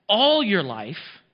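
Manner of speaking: "all your life" said very slowly, each word weighed; emphasized phrase. Shown as a demonstration. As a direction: lean hard on "all your life", drawing it out. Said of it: "I want to emphasize that".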